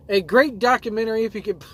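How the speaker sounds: reading fast through giggles; trying not to crack up; rushed, fighting laughter. Real, not acted. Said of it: "I'm laughing so hard".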